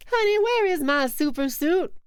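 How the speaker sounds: hollering for the suit through the house; mock Frozone quote. Streamer quoting the Incredibles line, hammed-up. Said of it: "That's what it was".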